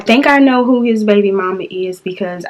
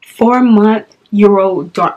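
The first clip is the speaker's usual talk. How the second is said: incredulous echo; 3 semitones lower, slower than usual. Retold or imitated. She echoes the age incredulously.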